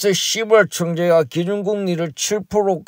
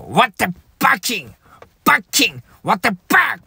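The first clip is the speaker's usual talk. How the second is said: mock angry swearing; 4 semitones higher, much slower than usual. Chairman swearing in English.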